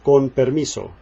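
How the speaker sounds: con permiso with no puff on the p; Spanish con permiso. Shown as a demonstration. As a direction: say con permiso, p held back without air. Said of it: "excuse me is pronounced con permiso".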